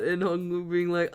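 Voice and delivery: normal talking voice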